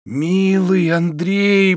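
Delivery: tender. A narrator's reading. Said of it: "произнёс Обломов, обнимая его".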